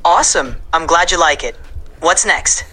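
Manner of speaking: lightly Puerto Rican-accented English. Shown as a demonstration. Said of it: "Here's a Puerto Rican accent in English".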